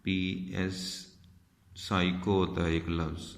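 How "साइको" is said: "साइको" begun straight on s; silent P. Shown as a demonstration. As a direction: say "साइको" with no p sound at the start. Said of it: "पहला word ही silent".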